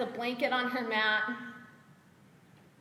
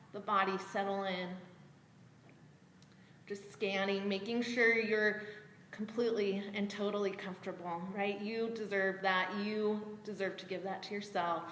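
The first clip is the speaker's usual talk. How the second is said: guided meditation; 2 semitones lower than usual. Acted. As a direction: settle them in gently, leaving long pauses. Guides body scan and breathing.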